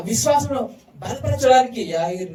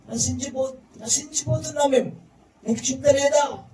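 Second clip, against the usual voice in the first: panicked cry; 6 semitones higher, 3 dB louder than usual. Retold or imitated. Voicing a panicked believer.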